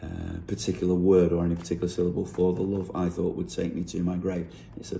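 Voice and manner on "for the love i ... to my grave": even, unstressed reading of "For the love I thought would take me to my grave"; no real emphasis. Shown as a demonstration. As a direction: give every syllable from "For" to "grave" the same weight. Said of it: "with no real emphasis on".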